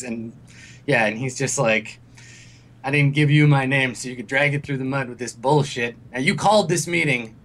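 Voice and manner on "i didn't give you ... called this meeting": mildly angry scolding; pissed-off old father. Acted. Old Higgs berating his son about the name, mildly angry. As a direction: scold him as a cross old father, rising on the last charge. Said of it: "he looks real pissed at Higgs".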